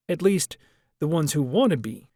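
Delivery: Washington voice. Acted. Washington's pointed remark.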